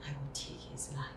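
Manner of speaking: low, hushed, quick vow; soft, low menace; quiet threat. Acted. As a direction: vow revenge under your breath. Sister vows revenge.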